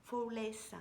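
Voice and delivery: Forever Flawless in a playful French-flavoured English accent, a bit slow; hammed-up English accent, slightly slowed; mock English accent. Shown as a demonstration. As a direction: put on a jokey English accent for the brand name. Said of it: "avec mon super accent English".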